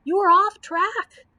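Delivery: high, loud, slow wail. Acted. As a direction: drag it out in despair. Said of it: "wailed the Scarecrow".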